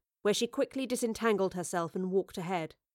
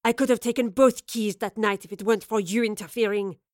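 snarling. Acted. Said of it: "Lorelei snarled".

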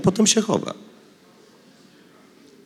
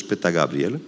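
ordinary delivery

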